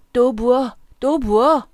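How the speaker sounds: put-on loud, high drunken shout. A narrator's reading. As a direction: holler for another round. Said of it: "라고 외쳤다".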